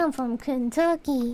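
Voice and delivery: put-on slow, stretched go at a Kentucky accent; attempted Kentucky accent. Claiming to be from Kentucky, attempted Kentucky accent. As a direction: try on a Kentucky accent, drawing it out. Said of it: "did I get the accent?".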